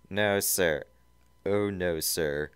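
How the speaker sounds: lightly voiced squeaky underling; a hint of a squeak; squeaked Snively. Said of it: "Snively squeaked".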